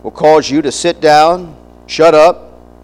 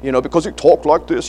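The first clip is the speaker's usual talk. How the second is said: mock British or Australian accent; imitated British accent; 5 semitones lower, 4 dB quieter than usual. Americans admiring a visiting British preacher, mock British accent. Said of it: "they got that British accent or that Australian accent".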